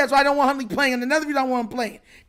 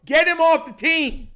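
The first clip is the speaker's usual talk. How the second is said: mock complaint to coach; 4 semitones higher, 4 dB louder, slower than usual. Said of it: "I'm gonna be like".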